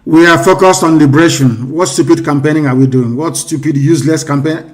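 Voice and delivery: loud, scornful retort. Real, not acted. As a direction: dismiss it with contempt. Scornful reply to question.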